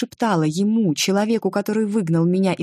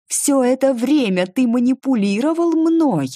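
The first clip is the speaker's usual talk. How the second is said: 1 furious accusation; 8 semitones higher, 4 dB louder than usual. A narrator's reading.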